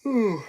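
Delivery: big rising yawn. Real, not acted. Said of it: "sorry, I'm yawning".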